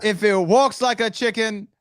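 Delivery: imitating a wrestling promo; mock wrestling promo voice. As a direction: mimic the promo with mock gravity. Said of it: "Look at the dress".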